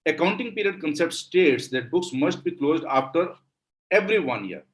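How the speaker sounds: slow, deliberate dictation of a definition. Shown as a demonstration. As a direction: read it out word by word for notes.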